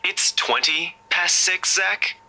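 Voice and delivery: high teasing friend on phone; chirpy and teasing; cheerful buddy voice. Acted.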